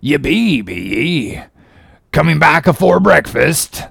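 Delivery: cracked, swooping stranger's questions; Elijah's voice. Acted. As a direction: quiz them like a crazed prophet.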